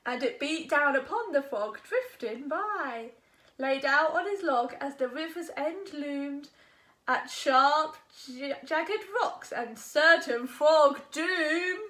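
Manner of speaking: slowing narration toward doom; storyteller building suspense; suspenseful storytelling. A narrator's reading. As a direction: build the danger for the kids.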